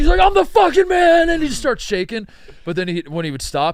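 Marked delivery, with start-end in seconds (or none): 0.2-1.3 pumped-up, very high, loud and drawn-out. Retelling how a teammate hyped himself up after a spike: imitating someone hyping himself up. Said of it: "hype himself up".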